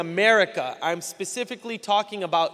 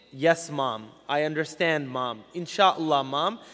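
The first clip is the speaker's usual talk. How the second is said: put-on lower, subdued obedient child to mom; dutiful child; 5 semitones lower than usual. Child answering parents with one of two faces, dutiful. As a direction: play the meek, obedient kid. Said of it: "They had to wear two faces".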